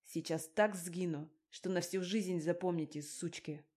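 put-on thug hissing a threat at the girls; menacing hiss. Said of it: "прошипел".

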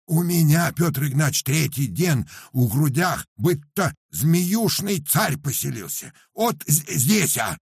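high, loud peasant lament; Paramon's voice. Acted. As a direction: wail about the burning chest like a simple peasant. Paramon complains of chest pain.

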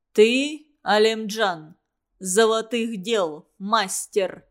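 a touch of a stern ruler; stern question. Acted. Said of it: "строго спросил владыка Хивы". (строгий вопрос)

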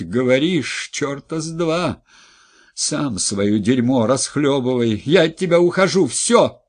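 wife leaving her husband in a loud rage; furious shout. Acted. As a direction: spit it out and slam the door on him. Wife raging, leaving him.

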